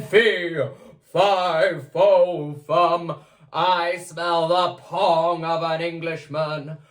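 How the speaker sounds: booming giant chant; giant roar. Acted. Giant roars again at the smell. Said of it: "roared the giant".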